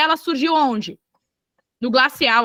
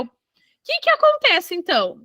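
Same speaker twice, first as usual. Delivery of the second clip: dramatic question; 4 semitones higher than usual. Acted. Teacher poses a dramatic question.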